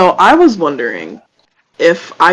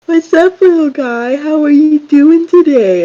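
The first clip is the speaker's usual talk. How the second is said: soft sultry voice; 10 semitones higher than usual. Acted. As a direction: coax it like a lover. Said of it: "talk in a very soft, sultry voice".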